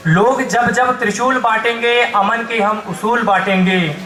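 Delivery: declaimed couplet with lingering line ends; poem recitation. Acted. Poet offers the audience lines on peace, declaiming. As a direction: recite in rhythmic, measured phrases.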